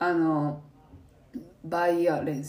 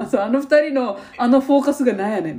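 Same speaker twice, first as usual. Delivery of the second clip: mock exasperation; 3 semitones higher, 5 dB louder than usual. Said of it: "みたいな".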